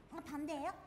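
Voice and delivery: usual speaking voice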